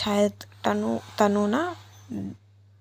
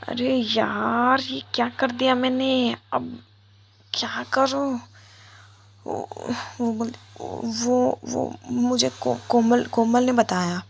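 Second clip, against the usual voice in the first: higher, stammering in a fluster; flustered panic; 4 semitones higher than usual. Acted. Caught by Tanu, Viya stammers in panic. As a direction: caught out and scrambling for words. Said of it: "विया ना फंस जाती है".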